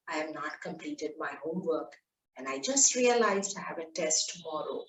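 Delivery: soft, sad, downcast admission; boy owning up to his mother at night; sad confession. Acted. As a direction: confess quietly, near tears. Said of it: "And he starts crying".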